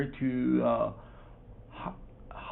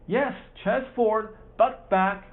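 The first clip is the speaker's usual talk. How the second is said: loud, higher coaching shouts; shouted orders; 8 semitones higher, 4 dB louder than usual. Acted. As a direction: bark it like a coach urging him on. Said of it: "shouted Mister Jones".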